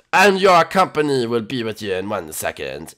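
mock-French fancy host; attempted French accent. Host getting the door, put-on French accent. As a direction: play the courtly host with fake French accent. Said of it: "try French".

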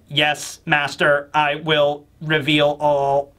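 slow, even robotic drone. Retold or imitated. Kuma answering Dragon's order, slow robotic monotone. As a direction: drag the words out like a machine. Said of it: "in a robot voice".

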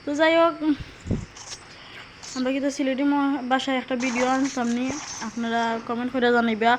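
casual Sylheti dialect, as announced to viewers; easygoing Sylheti banter. Shown as a demonstration. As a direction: switch into relaxed home-village Sylheti speech. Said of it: "তো আমি সিলেটি ভাষা শুরু করছি".

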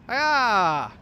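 loud shouted hiya; battle cry. Acted. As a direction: yell it like a karate chop.

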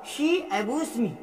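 each English word drawn out slowly; slow dictation. Shown as a demonstration. Teacher slowly dictating the example sentence to students. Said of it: "उसी तरह".

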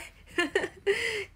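high, tearful laugh; laughing till almost crying. Real, not acted. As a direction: laugh until it turns teary. Embarrassed reaction to a comment.

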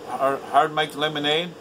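sneering rise on Hard Mike lemonade, as if it were absurd; mocking question. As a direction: mimic the friend's pickiness with scorn. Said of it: "I should have told him right there and then".

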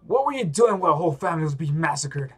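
fast, furious accusation; angry shout. Acted. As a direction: hurl it at him. Voicing an enraged game character.

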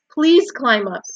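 high, loud begging; desperate. A narrator's reading. Wilbur begs the rat to climb, desperate. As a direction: beg him urgently. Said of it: "said Wilbur in desperation".

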